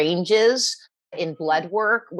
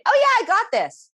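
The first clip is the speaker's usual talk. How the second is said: much higher, quick, breezy voice; breezy confident self; 4 dB louder, faster than usual. Retold or imitated. Recalling her upbeat self after her period, breezy high voice. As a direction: play your carefree post-period self, light and sure. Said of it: "And I'd be like".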